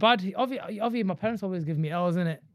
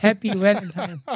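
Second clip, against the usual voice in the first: slow imitated Asian greeting, W for V in "Valentine"; Asian accent; 4 dB louder, slower than usual. Wishing happy Valentine's in jest, mock Asian accent. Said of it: "that's what Asians say".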